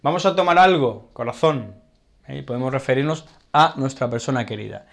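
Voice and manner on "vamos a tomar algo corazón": affectionate invitation. Shown as a demonstration. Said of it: "Podemos decir".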